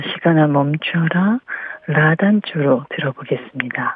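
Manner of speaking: very low, deep classical fm radio dj voice. Do the opening of the Park Myung-soo show as a classical FM DJ impression. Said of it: "그 클래식 FM DJ 분이 하는 걸로 해서".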